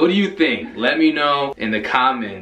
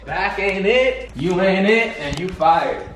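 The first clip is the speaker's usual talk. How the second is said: mock dismissal; 4 semitones higher, slower than usual. Mock firing the barber.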